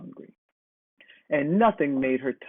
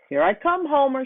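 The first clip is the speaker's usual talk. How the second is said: high, louder call up the hill; hollered greeting; 10 semitones higher, 4 dB louder than usual. A narrator's reading. Hippo calling ahead to Homer at the hilltop, high holler. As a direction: shout ahead to a friend, much higher. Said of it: "she hollered ahead".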